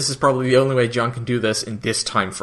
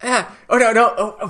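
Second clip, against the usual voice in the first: mock shout; 9 semitones higher, faster than usual. Chiana shouting as the Scarans approach, mock alarm. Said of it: "Chiana just shouts".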